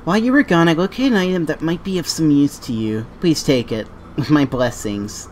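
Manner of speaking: formal, gracious questgiver; wise NPC voice. Acted. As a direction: read it like a noble elder. Reads NPC dialogue aloud.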